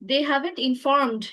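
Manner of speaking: slow, distinct "informed" with a clear final d; clear enunciation. Shown as a demonstration. Teacher showing student how to speak clearly, "informed" slowly enunciated. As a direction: spell out "they haven't informed" by ear, word by word. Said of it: "স্পষ্ট করে বলতে হবে".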